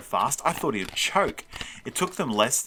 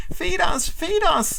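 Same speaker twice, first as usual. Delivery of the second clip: high, loud creature chant; whining little monster; 6 dB louder, slower than usual. A narrator's reading. Little monster flying from closet, whining. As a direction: whine the demand high and loud. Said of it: "the little one whined".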